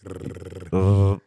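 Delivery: Rrr with no trill at all; failed rolled R. Shown as a demonstration. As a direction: try the Rrr but fail to roll it. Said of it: "see how you can't do that?".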